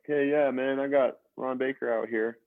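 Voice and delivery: put-on high brash New York accent. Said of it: "there's a New York accent".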